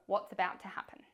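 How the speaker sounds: hushed whisper for suspense. Acted. Coach to riders, whispering the unknown suspensefully. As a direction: drop to a secret whisper.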